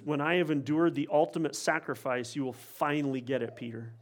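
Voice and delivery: Jesus to Peter, quiet and patient; gentle promise. Retold or imitated. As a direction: reassure him quietly. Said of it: "He says".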